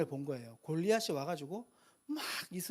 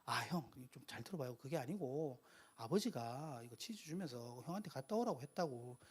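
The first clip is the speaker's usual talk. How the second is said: softer, lower, placating younger brother; acted patient explaining; 4 semitones lower, 9 dB quieter than usual. Younger brother explaining his father's errand to big brother, patiently. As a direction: calmly explain yourself to an older brother, softly. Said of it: "잘 설명할 수도 있었을지도".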